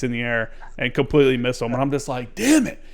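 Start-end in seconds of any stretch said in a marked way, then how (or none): 2.3-2.8 mock-anguished swear, pitched up; retold frustration. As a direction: act out a moment of dismay. Retelling frustration at the missed shot.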